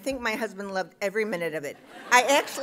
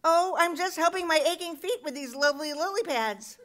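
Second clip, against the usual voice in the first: higher, sweetly polite reply; mock polite; 7 semitones higher, 3 dB louder than usual. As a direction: act out an innocent, courteous answer. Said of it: "And I just politely said".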